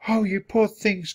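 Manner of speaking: high-pitched, mild exclamation of pity; lightly voiced woman pitying children; sympathetic cry. A narrator's reading. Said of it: "cried Florence".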